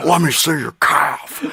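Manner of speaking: sinister, creepy movie-villain voice. Speaker retelling a man asking to see her calf: Silence of the Lambs–Saw creep voice. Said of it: "Silence of the Lambs and Saw".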